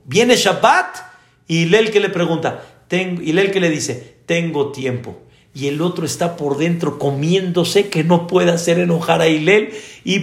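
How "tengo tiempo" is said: calm. Retold or imitated. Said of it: "así muy tranquilo".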